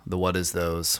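normal talking voice

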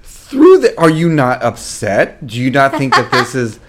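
hammed-up anxious partner who can't believe you sleep; mock panic. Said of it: "I'm like".

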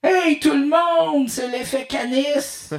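high, loud voice through a metal can; through a tube. Shown as a demonstration. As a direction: talk into a tin can. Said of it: "je parle dans une canisse".

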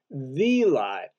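"the" stressed, then fall on "lie". Shown as a demonstration. Preacher insisting it is one lie, stressing "the". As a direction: make "the" count. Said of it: "not just any old lie".

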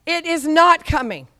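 No rising loud and high; firm refusal. Shown as a demonstration. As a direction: slam the No, then settle. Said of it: "you say".

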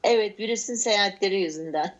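laughing while repeating it; chuckling through the words. Real, not acted. Repeats partner's joke, laughing.

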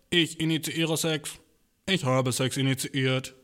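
slow, stiff robotic monotone; slow mechanical robot reading. Retold or imitated. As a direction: spell it out like a machine. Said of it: "seid ihr beides Roboter?".

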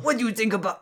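a hint of a fake German accent. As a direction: start a fake German accent, then stop. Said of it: "fake German accent".

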